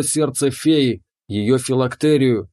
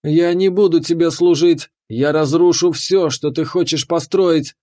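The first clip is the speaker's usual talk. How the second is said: screaming; 3 semitones higher than usual. Acted. The fairy screams as she hurls fireballs. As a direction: scream defiance at him. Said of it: "закричала Веста".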